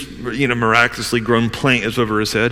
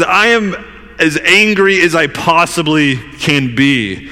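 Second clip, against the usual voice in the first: acted angry insistence, raised pitch; heated, emphatic mock protest; retold peak anger; 4 semitones higher than usual. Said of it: "he's at the peak of anger".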